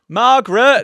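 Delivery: high, loud sing-song call; loud high camp call of Margaret. Retold or imitated. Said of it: "he's like".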